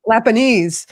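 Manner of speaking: Lappensee turned into "Lapaneez"; Lappensee mispronounced Lapanese. Shown as a demonstration. Co-host admits the wrong name, Lappensee said as Lapanese. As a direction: stretch the wrong ending of Lappensee to "-eez". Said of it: "I was saying the wrong name".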